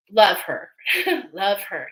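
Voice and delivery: fighting back tears; choked up. Real, not acted. Talking about late aunt, choked up. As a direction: voice catching with emotion. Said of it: "I'm getting emotional here".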